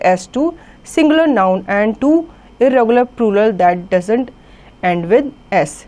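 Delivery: slow, deliberate reading of the grammar rule; slow textbook reading. Acted. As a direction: dictate it slowly so students can follow. (धीमे स्वर में नियम पढ़ना)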